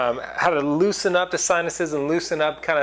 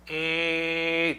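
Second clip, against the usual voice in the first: nasal E; 3 semitones higher, 4 dB quieter than usual. Shown as a demonstration. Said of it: "So you're going".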